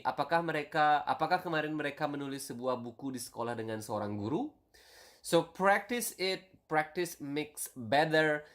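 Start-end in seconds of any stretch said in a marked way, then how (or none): 0.0-4.5 fast, natural run-through, still rising on "guru?"; normal speed. Shown as a demonstration. Teacher shows students the everyday version, quick and natural. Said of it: "the normal version would be".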